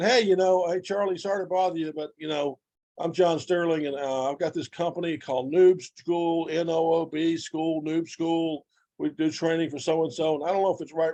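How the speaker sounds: desperate, panicky, begging, pleading delivery. Acting out himself calling someone to pitch his company, mock-pleading and panicky. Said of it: "I'm kind of pleading, begging, panicking".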